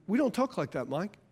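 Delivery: soft, low fatherly correction; a hushed firm word to a son; softly scolding his son; quiet stern rebuke. Retold or imitated. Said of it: "And I told him".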